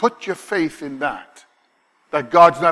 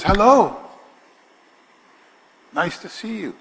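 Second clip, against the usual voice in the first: lightly voiced gentle angel, higher; reassuring greeting; 7 semitones higher than usual. Angel greeting young Mary, gentle and higher. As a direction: put a frightened girl at ease. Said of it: "Trying to make her at ease".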